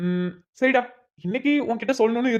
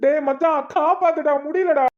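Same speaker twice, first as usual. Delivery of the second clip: desperate plea; 5 semitones higher, slower than usual. Acted. Beaten man begs friend.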